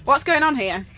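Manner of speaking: low, grumpy neighbour voice; a lightly voiced suspicious neighbour; nosy neighbour.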